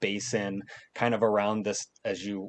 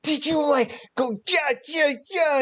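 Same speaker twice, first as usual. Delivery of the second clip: high, loud, bouncing yeahs; playing swordfight; 4 dB louder than usual. Boy mimicking a fight with a wooden sword, high and loud. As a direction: swing the toy sword while shouting.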